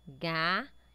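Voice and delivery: Gafanhoto in four separate pieces with long pauses; syllable by syllable. Shown as a demonstration. Teacher checks it has four syllables, syllable by syllable. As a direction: count out Gafanhoto as ga, fa, nho, to. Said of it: "tá falando que tem quatro sílabas".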